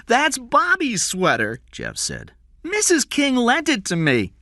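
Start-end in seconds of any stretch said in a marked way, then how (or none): 0.1-1.6 put-on higher, slow frightened boy's voice; a young boy insisting on his name, nervous; scared boy Jeff. Boy explains to kidnapper. 2.6-4.3 put-on a young boy insisting on his name, nervous; scared boy Jeff. Boy explains to kidnapper.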